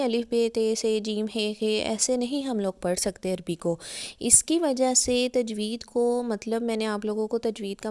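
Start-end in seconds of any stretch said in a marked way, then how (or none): 0.0-1.8 बे, ते, से, हे with "ay" endings; Urdu-style alphabet, not Arabic "aa" endings; Urdu letter names. Shown as a demonstration. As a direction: rattle off अलिफ, बे, ते as in Urdu. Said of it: "हम ऐसे नहीं".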